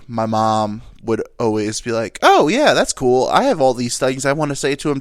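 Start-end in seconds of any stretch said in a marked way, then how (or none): 2.2-5.0 eager mom. Retold or imitated. Mom joining the family roast, gleefully eager. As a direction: jump in as an eager mock mom.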